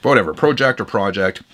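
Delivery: "Project" said first as PROH-ject with a long o, then as PRAH-ject with a short o; two pronunciations of Project. Shown as a demonstration. Vlogger unsure how to say the brand name, trying both pronunciations. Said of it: "some people say I'm wrong when I say Project".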